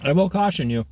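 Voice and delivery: talking through a mouthful of ribs; mouth full. Real, not acted. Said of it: "Sorry, Mom, talking with my mouth full".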